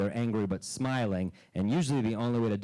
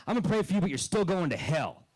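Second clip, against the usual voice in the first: put-on old lady; 6 semitones higher than usual. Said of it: "And she goes".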